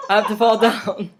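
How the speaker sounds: lightly voiced mock R-Truth, hammed-up amazement; a hint of a wrestler faking being blown away. Vlogger mocks R-Truth's fake sell, lightly hammed-up amazement. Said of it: "He's like".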